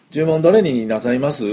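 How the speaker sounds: lightly put-on Kansai lilt on a polite question; Kansai accent. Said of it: "思いっきり関西弁でね".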